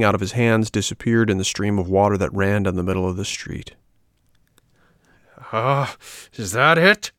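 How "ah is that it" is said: slow, raised angry puppet; angry shout. A narrator's reading. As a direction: snap in rage. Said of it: "shouted Pinocchio, blind with rage".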